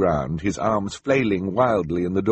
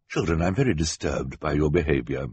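lower, stern adult voice; disapproving banker; 4 semitones lower than usual. Acted. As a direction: scold children in a low register.

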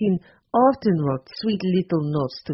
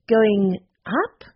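"going up?" asked uncertainly with a rise; wrong idiom; 4 semitones higher, 4 dB louder than usual. A narrator's reading. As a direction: try out "going up" like a learner unsure. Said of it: "Going out".

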